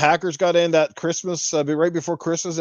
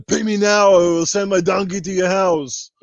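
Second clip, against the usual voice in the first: lightly voiced scam caller, a touch of a put-on accent; hint of a fake tax-office caller; spoof scam caller impression; 3 semitones higher than usual. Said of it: "I'll do the Ernie, the impression".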